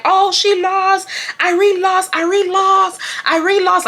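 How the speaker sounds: high, drawn-out crowd chant; high-pitched mock shouting; imitated crowd screaming. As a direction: mimic a crowd jeering the news. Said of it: "the whole crowd is screaming".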